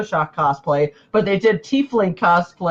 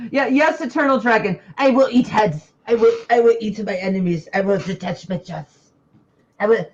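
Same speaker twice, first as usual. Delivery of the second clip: monster voice; 2 semitones higher than usual. Acted. Plays dragon tiefling.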